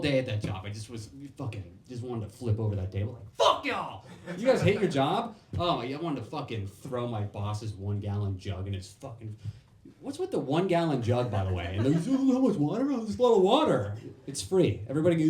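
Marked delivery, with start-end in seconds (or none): 3.4-5.4 higher, louder raging yell; imagined outburst. Pretend. Comic imagining quitting at coworkers, loud angry yell. 12.1-13.9 much higher, louder dopey boss voice; goofy fawning over his water jug; mocking boss. Boss bragging about his gallon of water, high goofy voice.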